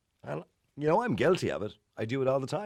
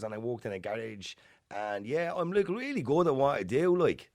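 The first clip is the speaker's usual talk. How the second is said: higher-pitched, slow, halting thick Dublin accent playing a job candidate; thick inner city Dublin accent; 5 semitones higher, slower than usual. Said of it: "the interviewer might say to him".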